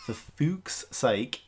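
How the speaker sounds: "Fuchs' Sake" carefully spaced out, slowly; wary, deliberate enunciation of "Fuchs' Sake"; careful pronunciation. Real, not acted. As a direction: say "Fuchs' Sake" slowly, minding every sound. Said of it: "have to really be careful about saying this".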